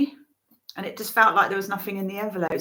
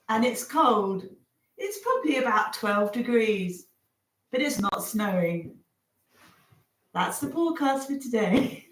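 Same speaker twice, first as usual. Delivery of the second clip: lightly voiced forecast reader; weather presenter. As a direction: deliver a playful mock forecast, phrase by phrase. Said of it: "Ask her to do the weather".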